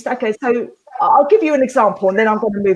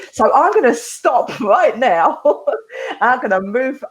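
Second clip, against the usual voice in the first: laughing; 3 semitones higher than usual. Real, not acted.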